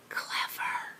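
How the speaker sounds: sarcastic whisper; dry whisper. Acted. Ruff mocking Byrne's shouting, whispered. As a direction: breathe it out, unimpressed. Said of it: "Ruff rolled his eyes and whispered".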